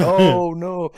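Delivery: high, breezy oh no; a lilting, unbothered oh no; imitating calm passenger. Friend mimics passenger's oddly calm oh no, high and light. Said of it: "she sounds so calm about it".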